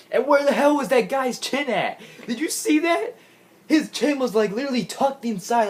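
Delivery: high, laughing disbelief. Real, not acted. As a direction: laugh through the words in amazement. Laughing at wrestler's missing chin.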